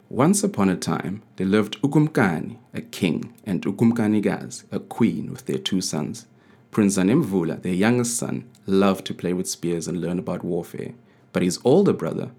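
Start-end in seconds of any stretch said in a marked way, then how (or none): none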